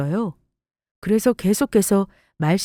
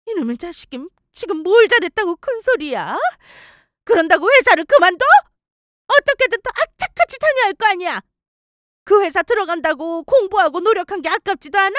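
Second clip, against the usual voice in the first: louder, higher angry scolding; angry mother; 11 semitones higher, 3 dB louder than usual. Acted. Mother yelling at son for quitting his job, angry. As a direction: yell at the son in disbelief.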